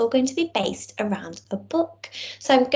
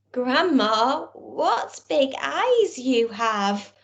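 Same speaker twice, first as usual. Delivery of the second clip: put-on very slow child's wonder; amazed little girl; 2 semitones higher, much slower than usual. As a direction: stretch each word like a wide-eyed child. Girl marvels at grandma.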